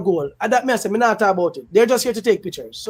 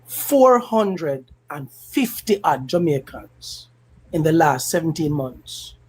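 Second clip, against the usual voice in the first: slow grave repeat; slow and lower, each word weighted; 5 semitones lower, slower than usual. Real, not acted. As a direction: drag out "Four hundred and fifty odd" slowly. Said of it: "I'm gonna say it again".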